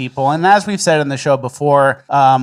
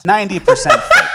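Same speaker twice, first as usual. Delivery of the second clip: higher, laughing through the words; laughing mock. Real, not acted. Host laughing at the fake-support tweet, amused scoff.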